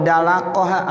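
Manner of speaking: "dalakoha" with initial d; dal substitution. Shown as a demonstration. Teacher showing the lay form, "dalakoha" starting with dal. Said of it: "pakai dal".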